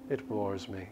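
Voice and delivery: lightly voiced vampire, coolly toying with her prisoner; a hint of a cruel, amused immortal; vampire captor.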